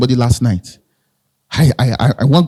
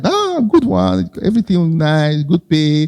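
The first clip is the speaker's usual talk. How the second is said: excited; 2 semitones higher, slower than usual. Retold or imitated. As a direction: relish the good offer, voice jumping up at first. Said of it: "of course, I was excited".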